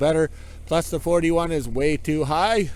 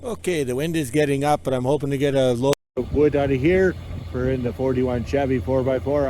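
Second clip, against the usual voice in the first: louder, talking over the wind; over wind noise; 4 dB louder, faster than usual. Real, not acted. Hauling wood, talking over the wind, louder. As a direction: raise the voice above the gusts.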